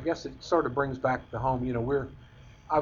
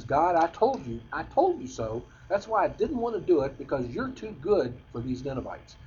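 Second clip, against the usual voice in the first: imitating an angry Jonah; 3 semitones higher than usual. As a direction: act out Jonah's indignant grumbling prayer. Jonah complains angrily to God.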